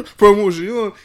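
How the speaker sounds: "Promotion" in a high, shouted French accent. Shown as a demonstration. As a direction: keep the loud bonjour tone, hammed-up French. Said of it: "And then keep that".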